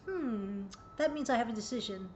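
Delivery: put-on quick musing child's reply, fast; mock pondering child. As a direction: think aloud like a clever kid. Child voiced weighing options.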